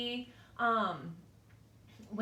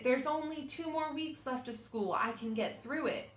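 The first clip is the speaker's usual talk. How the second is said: reassuring self-talk; 3 semitones higher than usual. Shown as a demonstration. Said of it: "We can say".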